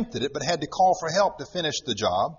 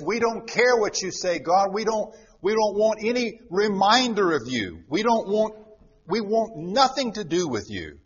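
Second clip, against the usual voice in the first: higher, defiant voice of rebels; man defying God in a higher, scornful voice; 5 semitones higher than usual. Acted. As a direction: shake a fist at heaven with it. Voicing defiant mankind against God.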